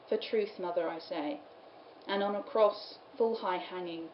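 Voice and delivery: measured verse, line by line; poem reading. Acted. Lecturer reading the infant Jesus's answer to Mary, measured poem reading. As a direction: recite it evenly, pausing between phrases. Reads the carol aloud.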